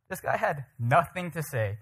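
slow, measured repeat in normal pitch; deliberate, weighty delivery at a slow pace; slow emphasis. Real, not acted. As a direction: spell it out, drawing out "nothing". Repeats line slowly for emphasis.

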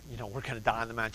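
low, hushed, rapid aside; quick under-the-breath imitation of a worried wife; unspoken worry. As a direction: voice a wife's silent fretting, soft and quick. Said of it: "She's not saying this out loud".

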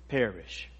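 preacher hammering "never" for emphasis; emphatic repeated never. Shown as a demonstration. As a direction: hammer "never" over and over, building then falling away. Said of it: "it makes it emphatic".

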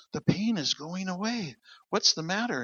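a hint of a bewildered sick father; amazed old dad. Sick dad feels healing.

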